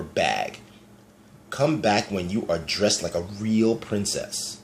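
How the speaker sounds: slow, lightly voiced snooty prince; mean prince. Ronald scolding Elizabeth's messy looks, lightly voiced sneer. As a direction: sneer down at her, slowly.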